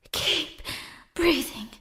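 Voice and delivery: high, soft hushed self-reminder; self-soothing hush. Acted. Shaken girl quietly tells herself to keep breathing. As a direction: coax yourself to breathe.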